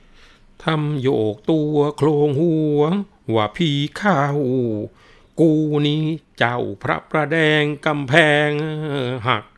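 high, loud, slow booming of a possessing spirit; hammed-up fake possession, swaying and bellowing; possessed spirit voice. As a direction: rant like a demon has seized you. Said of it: "ทำออกยักษ์ทีเดียว".

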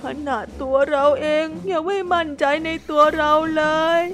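high, sorrowful self-talk with a sigh; high, heartbroken little voice; sad monologue. Acted. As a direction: speak to yourself, heartbroken. Hippo's sad lonely monologue.

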